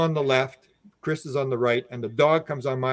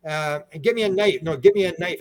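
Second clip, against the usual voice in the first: higher, urgent mock yell; retold yelling; 6 semitones higher than usual. Dog's owner yelling for rag and knife, retold urgent yell. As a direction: imitate urgent calls for help. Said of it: "he's yelling".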